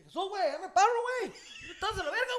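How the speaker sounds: high, loud hothead imitation; mock yelling. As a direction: shout it like the riled-up guy in the story. Acting the aggressor's shouting.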